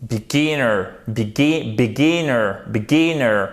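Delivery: "beginner" repeated with short i's and stress on "gin"; teacher's repetitions of "beginner", second syllable stressed; repeated stress drill. Shown as a demonstration. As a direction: drill "beginner" as bi-GI-nner, punching the middle. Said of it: "vous avez l'accent tonique là".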